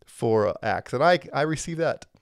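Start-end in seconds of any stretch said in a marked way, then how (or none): 0.1-0.9 playful mocking. Home fellowship teases teacher about context, playful mocking. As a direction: imitate teasing friends, breaking into a laugh. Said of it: "they, they mock me".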